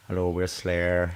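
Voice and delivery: slow, drawn-out stage greeting; mock metal-show hello; metal frontman. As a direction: play a metal singer greeting the crowd. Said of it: "like going to see a band".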